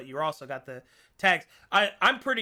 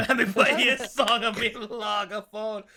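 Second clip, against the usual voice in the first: mock Australian; 6 semitones higher, 4 dB louder than usual. Repeats line louder, higher.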